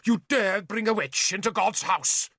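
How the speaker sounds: high, outraged scream. Acted. Bishop screams at Arthur for bringing a witch, high and outraged. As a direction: hurl the accusation. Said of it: "he screamed".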